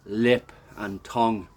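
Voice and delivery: talking through a burning mouth; mouth burning from spicy food. Real, not acted. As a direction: mouth on fire, breathing heavy. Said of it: "My lips and my tongue is on fire".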